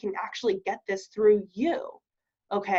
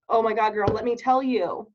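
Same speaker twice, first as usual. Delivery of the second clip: put-on bubbly, louder Oh my God, girl; excited girlfriend gush; 4 dB louder than usual. Shown as a demonstration. Friend spilling news to a commenter, excited. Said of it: "You're gonna say".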